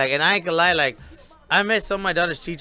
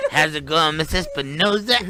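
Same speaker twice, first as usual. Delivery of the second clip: laughing greeting. Retold or imitated. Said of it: "I was like".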